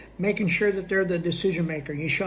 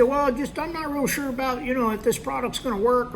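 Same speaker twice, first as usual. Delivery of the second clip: hesitant customer; 5 semitones higher than usual. Retold or imitated. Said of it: "when they come back and say".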